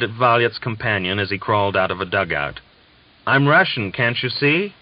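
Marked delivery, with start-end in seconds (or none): 3.3-4.7 much higher, louder panicked cry; a man facing a rifle, crying out frantically; frantic cry. Acted. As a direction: shout it before they shoot. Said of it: "he cried frantically".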